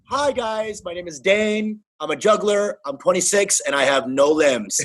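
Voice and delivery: mock contestant intro. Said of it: "they'll be like".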